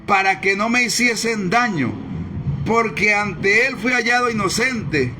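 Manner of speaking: measured, solemn Bible reading; preacher reading Daniel to the congregation, solemn; scripture reading. Acted. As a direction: read the passage like a preacher at the pulpit. Reads the scripture passage aloud.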